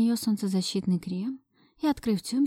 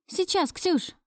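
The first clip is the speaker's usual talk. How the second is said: higher call across the house; 10 semitones higher, slower than usual. A narrator's reading. Startled, she calls back to Ksyusha. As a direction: call out to the friend. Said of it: "крикнула я".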